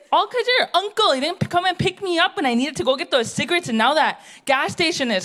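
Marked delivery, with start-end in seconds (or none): 0.1-2.4 indignant complaint. Retold or imitated. Auntie complaining loudly in quote.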